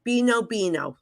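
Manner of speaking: low, soft, reluctant delivery; grudgingly relaying an embarrassing message. Retold or imitated. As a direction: say it as if you'd rather not. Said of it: "This really reluctant".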